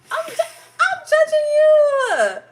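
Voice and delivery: judging you through laughter, slow; hammed-up mock judgment, cracking up; teasing laugh. Teasing viewer for not travelling.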